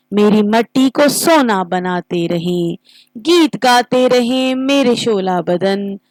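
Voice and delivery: patriotic verse with stressed words and rising, falling voice; poem recitation. Shown as a demonstration. Teacher modelling a national song for students, expressive poem recitation. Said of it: "کیسے لفظوں پر زور دے کر".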